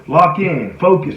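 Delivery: urgent self-coaching; key-word pep talk. Acted. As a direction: fire yourself up with short cues. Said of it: "whatever those key words are".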